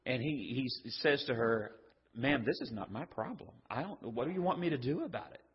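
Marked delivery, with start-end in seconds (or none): 2.1-5.4 soft, polite "Ma'am", no edge; gentle and respectful, almost tender; respectful son answering his mother. Shown as a demonstration. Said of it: "a term of endearment and respect".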